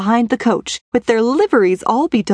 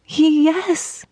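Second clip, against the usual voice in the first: sighing yes; 7 semitones higher than usual. A narrator's reading. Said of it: "cried Cinderella with a great sigh".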